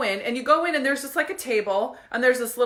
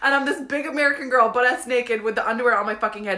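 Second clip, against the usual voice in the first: ordinary delivery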